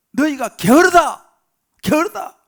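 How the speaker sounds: angry Pharaoh, loud and high. Acted. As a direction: bellow the accusation, drawn out at first. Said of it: "막 화가 난 거예요". (화가 나서 높고 크게 호통치듯)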